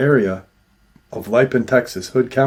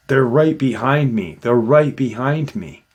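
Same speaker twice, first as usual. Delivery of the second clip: panicked warning; 4 semitones higher, 3 dB louder than usual. Retold or imitated. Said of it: "and he goes".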